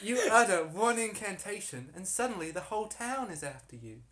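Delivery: put-on aggrieved harlot with an American accent. Harlot complaining about the town to investigators, put-on American accent. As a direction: plead her case in an assumed American accent. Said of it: "This is very American".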